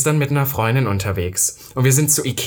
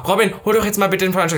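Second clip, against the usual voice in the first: higher, fast mock demand; pressing repeat request; 5 semitones higher, faster than usual. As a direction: imitate a friend nagging in a hurry. Second, more pressing request. (schnelle, drängende Bitte, nachgeahmt)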